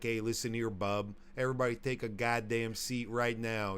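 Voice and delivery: lightly hammed-up Chicago tough guy; Chicago accent. Telling a friend how to act at the office, Chicago accent. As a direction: bark orders in a mock Chicago accent. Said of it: "start talking with some, like, Chicago-style accent".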